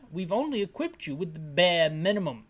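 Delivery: measured fake British officer; mock British accent. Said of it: "this guy isn't British anymore".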